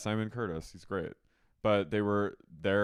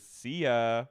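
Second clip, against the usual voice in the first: loud mock dismissive farewell; Jax; 5 dB louder than usual. Husband leaves sick wife there, mock weird farewell. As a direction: toss it out as an odd send-off. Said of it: "He does this weird bye".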